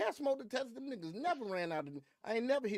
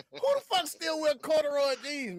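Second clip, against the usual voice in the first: incredulous outburst; 8 semitones higher, 5 dB louder than usual. Real, not acted. Mocking the witness's jeans.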